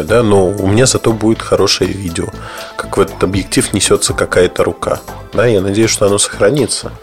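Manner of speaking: normal talking voice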